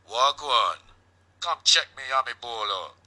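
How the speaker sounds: put-on a called-out Jamaican accent, pitched high. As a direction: shout it down in his best Jamaican accent. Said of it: "In my best Jamaican accent".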